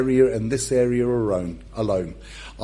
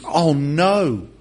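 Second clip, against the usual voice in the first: mock alarm; 3 semitones higher than usual. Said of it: "Jesus looks at Pete and he thinks".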